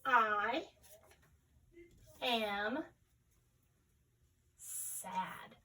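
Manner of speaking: "I am sad" with long pauses between each word; counting words aloud. Shown as a demonstration. Teacher counting words in a sentence, long pauses between words. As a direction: space out "I", "am", "sad" to count them. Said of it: "How many words are in our sentence?".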